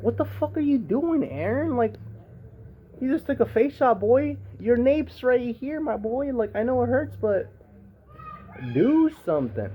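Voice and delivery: high, loud incredulous scolding; high-pitched disbelief at Eren; exasperated yelling. Retold or imitated. Viewer yelling at Eren on screen, in a high exasperated voice. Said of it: "I'm like".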